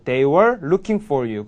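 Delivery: very slow, every word of "They were looking for you" spelled out; slow model read. Shown as a demonstration. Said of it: "이렇게 되겠죠".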